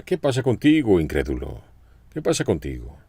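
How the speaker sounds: half-acted scold of a doubter; mock reproach. Jesus imagined scolding Peter, as a mock reproach. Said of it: "como un reproche".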